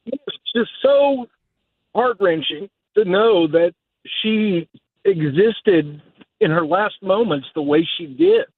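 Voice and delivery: choked up, fighting to get it out; emotional. Real, not acted. Caller talking about the slain girl, real emotion breaking through. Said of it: "I'm getting a little bit emotional here".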